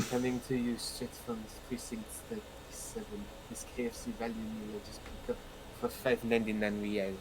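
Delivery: quiet French-accented character impression; Kim. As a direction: softly put on a French accent, voice held back. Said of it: "He's very French".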